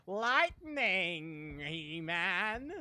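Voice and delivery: mock heroic shout of a catchphrase; loud imitation of a viewer's voice clip; imitating a cool deep announcer. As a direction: belt it like a cartoon hero. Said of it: "I wish I could sound like that with my voice".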